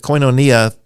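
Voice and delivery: koinonia as koy-no-NEE-a with short first o; preferred pronunciation. Shown as a demonstration. Teacher giving the way he would say it, careful pronunciation. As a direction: say koinonia carefully, accent on the iota. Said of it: "that's the way I would say it".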